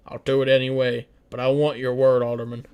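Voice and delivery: loud, firm demand; firm president. Acted. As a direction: demand his word, no argument. Nixon demanding a promise.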